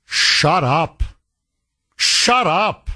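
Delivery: blunt, weary order to shut up; exasperated shut up. Pretend. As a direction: tell him flatly to shut up. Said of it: "if I'm the president of Ukraine".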